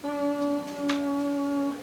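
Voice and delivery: "Mm" as a long, soft, high hum; letter M sound. Shown as a demonstration. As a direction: hum "Mm" and hold it steady. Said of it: "is the sound that M says".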